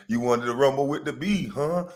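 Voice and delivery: taunting rap-line delivery, lightly voiced; lightly voiced rapper taunt; imitating a rapper. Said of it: "How the rapper say".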